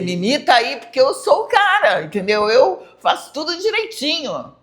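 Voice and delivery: boastful "I'm the man" voice, pitched high; cocky Saul. Acted. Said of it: "antes, Saulo, ia dizer".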